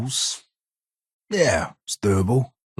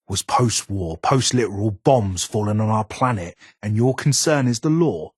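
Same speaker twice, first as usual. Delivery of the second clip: rising louder and higher in disbelief; incredulous scoff; 4 semitones higher, 5 dB louder than usual. Real, not acted. Gunsmith scoffing at the courier's concern for the law, louder and higher. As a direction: build up to a scornful outburst.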